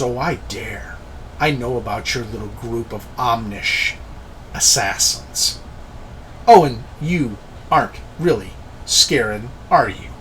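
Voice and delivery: put-on measured, lightly African-accented reply; light African accent with deliberate pauses; slight African accent. Spellcaster exposes Scarron's assassins, slight African accent. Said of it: "slight accent, almost an African accent".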